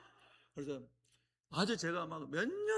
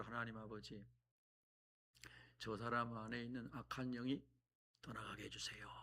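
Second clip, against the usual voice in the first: inward prayer; 6 dB quieter than usual. Retold or imitated. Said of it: "속으로 했어요".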